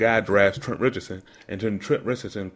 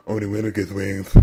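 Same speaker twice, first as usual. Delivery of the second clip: put-on country accent; 3 semitones lower than usual. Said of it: "in his country accent".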